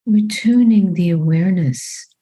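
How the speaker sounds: calm, unhurried meditation guidance with long pauses; measured body-scan voice, phrase by phrase; guided meditation. Real, not acted. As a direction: guide them gently into the body, leaving long silences.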